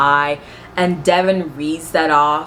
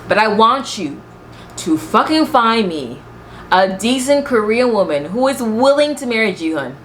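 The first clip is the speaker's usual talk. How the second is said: mock challenge; 5 semitones higher than usual. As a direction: challenge the mother with exaggerated emphasis. Sarcastic challenge to the mother.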